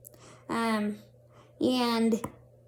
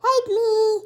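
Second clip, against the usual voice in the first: mock pleading; 10 semitones higher, 5 dB louder than usual. Pleading to the dispatcher.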